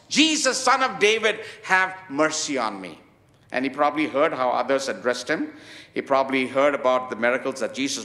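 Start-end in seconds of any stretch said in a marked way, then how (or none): 0.1-3.0 retold shout. Preacher voicing the beggar seizing his chance with Jesus, imitating a shout. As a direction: call out the name, then ease into the plea. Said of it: "So he shouts".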